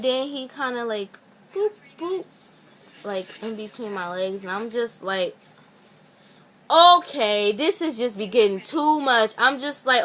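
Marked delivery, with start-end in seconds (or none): 1.5-2.2 little high "boop, boop"; two small separated pokes as sound effects; imitated poking noise. Mimes him poking her legs. 6.7-9.3 re-enacted fed-up outburst, loud on the first word; retold loud protest. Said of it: "You're so loud".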